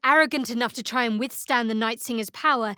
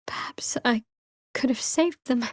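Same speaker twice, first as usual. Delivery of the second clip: whisper; 2 semitones higher than usual. Acted. Continues the private doubt.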